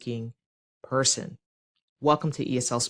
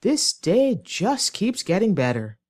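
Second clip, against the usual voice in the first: higher, exaggerated mock cheer; sarcastic; 4 semitones higher, 4 dB louder than usual. Shown as a demonstration. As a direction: punch the words with fed-up sarcasm. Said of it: "say the sentence sarcastically".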